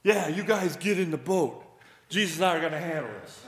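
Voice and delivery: loud, brushing the others off; cocky Peter. Retold or imitated. Peter telling disciples he and Jesus will handle the crowd, cocky and loud. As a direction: wave them off with swagger. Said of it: "sense Peter saying".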